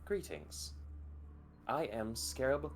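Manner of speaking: lightly voiced alien AI, cold and clipped; calm robotic symbiote speaking in your head; alien machine voice.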